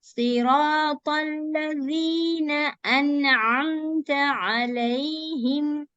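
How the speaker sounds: Siratal ladhina slowly chanted; slow recitation. Shown as a demonstration. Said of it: "Fatha and join with the lam".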